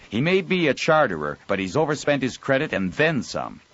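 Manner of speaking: worked-up storesman griping; agitated Joel. Acted.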